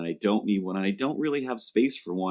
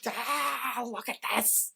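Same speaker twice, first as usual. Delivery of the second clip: delighted laughter; 10 semitones higher than usual. Retold or imitated. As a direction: squeal through laughter. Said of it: "not angrily, more like".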